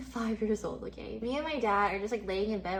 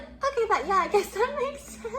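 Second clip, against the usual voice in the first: giggly, higher voice through the words; laughing; 10 semitones higher, 4 dB louder than usual. Retold or imitated. Retelling dad's blunt answer, laughing along. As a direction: laugh it out as you concede.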